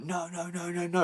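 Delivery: high-pitched mock "no" run; imitated high protest; retold refusal. Retold characters refusing a request.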